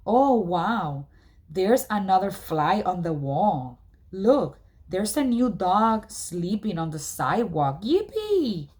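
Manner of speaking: mock the boring village with fake glee; mock excitement. Julian mocking his grandmother's village, sarcastic glee. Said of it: "I mean, it's like".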